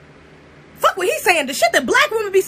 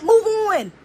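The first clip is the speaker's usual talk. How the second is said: normal talking voice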